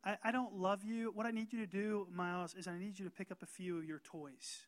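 lightly voiced harsh dad to his son; mock cold dad. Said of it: "It's like saying, if I were to Miles, my son".

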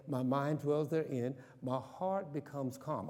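slow, settling self-talk; calm affirmation. Shown as a demonstration. Pastor calming himself with an affirmation, slow. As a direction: say it to calm your own heart. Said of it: "I'm not getting all emotional".

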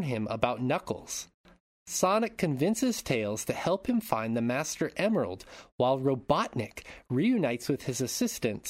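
scripted synopsis read with swooping emphasis; story narration. Acted. Host recapping the Sonic film for listeners, dramatic narration.

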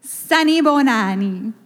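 ringing call to a crowd; calling out greeting. Shown as a demonstration. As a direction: call it out to the whole room for a response. Calls greeting for congregation's response.

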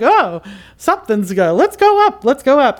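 high, urgent, rising alarm call; panicky animals. Retold or imitated. Animals fleeing the coming tsunami, high alarmed call. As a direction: sound the alarm like a startled animal.

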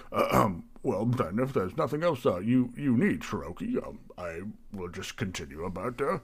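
fussy, lilting host patter; mildly flustered innkeeper being helpful; obliging tavern keeper. Acted. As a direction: accommodate the customer with nervous politeness. Plays Barry, flustered tavern keeper.

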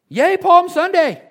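high, loud, slow hammed-up yay; mock cheer. Pastor mocking a Palm Sunday party with a cheer.

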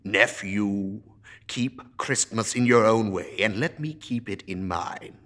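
loud, building furious tirade; angry rant. Acted. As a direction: rage at the fools of Christmas. Scrooge rants at nephew.

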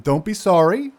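Tavar's voice. Acted. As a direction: tell her it isn't her fault. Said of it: "he looks over at you, Muddle".

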